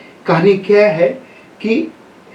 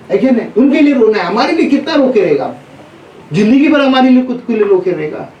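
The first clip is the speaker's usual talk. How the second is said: preaching at full force; 5 semitones higher than usual. Real, not acted. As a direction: press the congregation hard. Preacher exhorting congregation loudly. (ऊँची आवाज़ में उपदेश)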